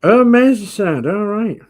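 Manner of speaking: high, loud mock Scouse; awful Scouser accent. Host echoes his co-host's answer in a mock Scouse accent. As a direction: put on a hammed-up Scouse accent. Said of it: "that's my awful, um, Scouser accent".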